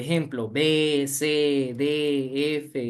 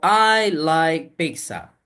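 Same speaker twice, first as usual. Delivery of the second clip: slow, louder reading of "I like pizza"; slow example reading; 4 dB louder, much slower than usual. Shown as a demonstration. Teacher reads the example sentence slowly and louder for students. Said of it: "Aquí tengo unas oraciones".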